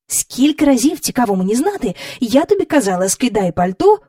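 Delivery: a stern governess's reproach; невдоволена няня бурчить; Mary Poppins scolding. Acted.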